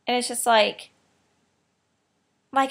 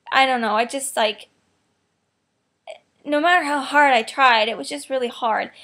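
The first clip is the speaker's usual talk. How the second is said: ordinary delivery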